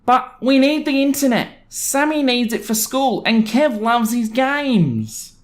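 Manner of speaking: high, whiny mock neighbor voice; pleading neighbor, high and drawn out. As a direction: whine it like a spoiled neighbor. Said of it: "something like this".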